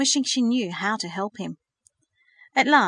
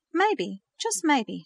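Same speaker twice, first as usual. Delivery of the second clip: hopeful; 6 semitones higher, much slower than usual. A narrator's reading. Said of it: "she said hopefully".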